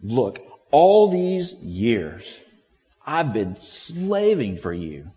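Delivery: slow, heavy resentful complaint; older brother guilt-tripping his father; laying it on. Retold or imitated. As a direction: drag it out with grievance. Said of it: "he is laying it on the dad".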